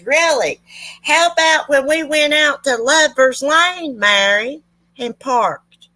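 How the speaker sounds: high, slow, teasing jab from the pew; mocking father-in-law. Father-in-law needling his ex at Bible study, high mocking voice. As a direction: call her out with a sly, high sneer. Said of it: "And James says".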